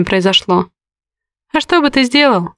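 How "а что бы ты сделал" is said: higher, bitter edge breaking through. A narrator's reading. Heroine to Горецкий, bitterness in her voice. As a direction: let the bitterness leak out. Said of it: "не сдержала я горечи в голосе".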